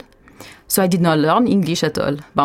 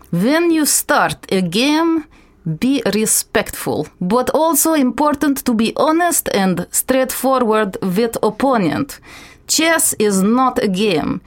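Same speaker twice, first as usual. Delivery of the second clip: quoting chess coach Evgeny; 3 semitones higher than usual. Retold or imitated. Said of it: "I quote".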